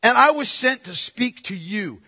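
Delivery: "you" leaned on at the end; emphatic "you". Acted. Angel sent specifically to Zechariah, emphatic on "you". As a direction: land "to speak to you" squarely on the listener. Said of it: "That's also emphatic".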